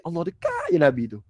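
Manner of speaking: high exclamation falling away; awed realisation. Retold or imitated. Preacher reliving his thought that the Prophet was near, high awed exclamation. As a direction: marvel aloud at the closeness. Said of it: "Saya pun fikir".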